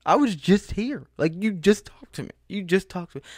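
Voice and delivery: high, loud, incredulous objection; exasperated customer arguing his case; indignant protest. Retold or imitated. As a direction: push back, outraged, at the clerk. Arguing with the rude clerk.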